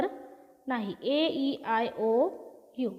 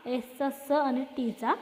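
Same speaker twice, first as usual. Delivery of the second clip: slow sounding out; much slower than usual. Shown as a demonstration. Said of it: "बीचा उच्चार ब".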